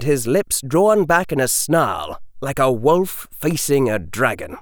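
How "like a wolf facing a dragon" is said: usual speaking voice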